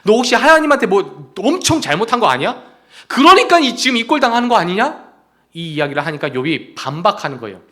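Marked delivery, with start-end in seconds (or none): 0.0-5.1 raised, accusing questions, peaking sharply on 그러니까; accusing friend. Retold or imitated. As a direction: jab at him like a suspicious friend. Friends accuse Job of sin.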